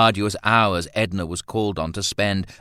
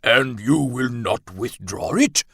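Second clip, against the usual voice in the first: raised, louder colonel's challenge; stern demand; 5 semitones higher, 5 dB louder than usual. A narrator's reading. Colonel challenging Roland to withdraw his invitation, demanding. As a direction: press him for an answer, indignant. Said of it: "Bennett demanded".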